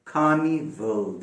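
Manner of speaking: कार्निवल slow, no R; slow teacher's कार्निवल; slow model. Shown as a demonstration. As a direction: draw out कार्निवल, R dropped. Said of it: "देखें गौर करें".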